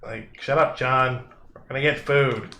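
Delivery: a hint of a gruff giant snapping back; second giant telling Dave to hush, mildly gruff; grumpy giant. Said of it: "another voice going".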